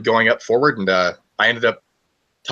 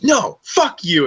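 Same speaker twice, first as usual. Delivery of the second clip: much higher, slow imitated snap; mock furious retort; 12 semitones higher, much slower than usual. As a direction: drag it out like she did. Secretary storms off, retold.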